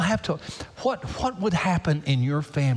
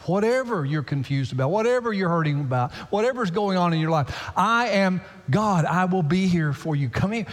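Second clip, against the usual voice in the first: voicing God; 4 semitones higher than usual. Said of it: "That's what God's saying here".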